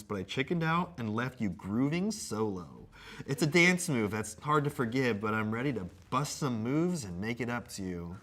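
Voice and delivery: mock-earnest apology read; measured comic recitation; letter read aloud. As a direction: read a scripted apology with playful theatre.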